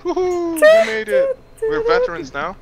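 squealing high with laughter; excited. Real, not acted. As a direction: cheer it out, voice way up. Celebrating finishing a mission.

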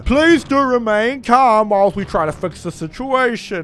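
slow, formal pilot voice; measured airline announcement; captain's announcement. Acted. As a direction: ask the cabin to stay calm, slowly. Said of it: "This is your captain speaking".

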